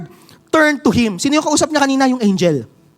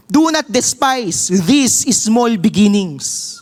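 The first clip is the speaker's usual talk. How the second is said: scripture reading; slower than usual. Acted. Pastor reads verse aloud.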